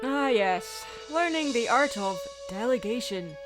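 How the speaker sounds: halting, grandly theatrical oration; William Shatner. Acted. Host musing on delegation, grand Shatner-style delivery. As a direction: pause dramatically between phrases, building in force. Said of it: "I went on William Shatner there".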